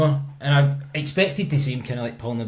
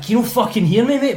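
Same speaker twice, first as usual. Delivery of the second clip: higher-pitched exasperated demand; retold shouting; 7 semitones higher, 3 dB louder than usual. Confronting man who will not answer, exasperated mock shout. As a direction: retell an angry challenge, pitched up. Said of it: "I started shouting at him".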